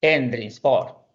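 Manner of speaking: Endringsvor said slowly; slow word demo. Shown as a demonstration. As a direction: Endringsvor spelled out by sound.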